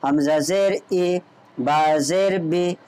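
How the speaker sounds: slow letter-by-letter spelling, then joined; spelling demo. Shown as a demonstration. Teacher shows students how to spell a word, slow and measured. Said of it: "इस तरीके से पढ़ें".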